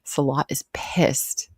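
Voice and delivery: slow dramatic whisper. Acted. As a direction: hush it out, slowly. Dramatic aside about Salah.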